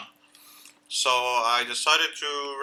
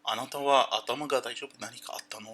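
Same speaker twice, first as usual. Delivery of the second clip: fading mock concern; 7 dB quieter than usual. Shown as a demonstration. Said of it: "て言ったら".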